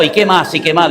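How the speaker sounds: pressing priest. Retold or imitated. Priest prodding a boy at confession, pressing. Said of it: "es que ya me presionaba tanto".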